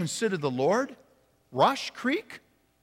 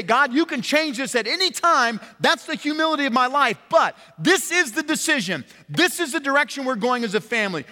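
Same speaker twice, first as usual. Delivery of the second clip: voiced prayer; 7 semitones higher, 3 dB louder than usual. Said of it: "we say".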